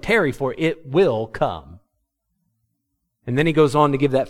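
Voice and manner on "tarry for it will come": slow emphasis. Shown as a demonstration. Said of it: "old way of saying wait".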